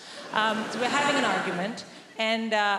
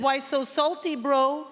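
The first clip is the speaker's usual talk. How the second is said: put-on higher, louder teen taunt; teenage son; 4 semitones higher, 3 dB louder, slower than usual. Teenage son teasing his mum at lunch, cocky higher voice.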